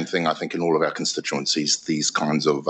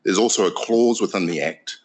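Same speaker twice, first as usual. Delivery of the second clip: ordinary delivery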